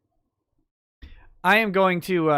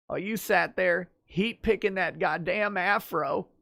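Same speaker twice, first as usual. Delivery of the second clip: softer, lightly put-on politician impression; Bill Clinton; 5 dB quieter than usual. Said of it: "while speaking as Bill Clinton".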